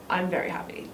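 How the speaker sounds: happy words said low and flat; low pitch. Shown as a demonstration. Teacher showing happy in a low tone. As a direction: drop the voice low on I'm very happy. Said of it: "in a very low tone".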